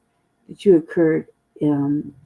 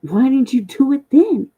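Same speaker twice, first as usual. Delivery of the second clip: louder, much higher and slower, voice changed; indignant demand; 8 semitones higher, 5 dB louder, slower than usual. Retold or imitated. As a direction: throw the question back at the tax office. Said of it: "I was like".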